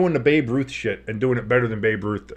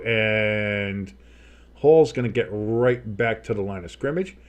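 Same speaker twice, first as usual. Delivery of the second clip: play-by-play announcer. Pretend. Streamer calling a live snap and throw for viewers, play-by-play. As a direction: call the play like a sportscaster.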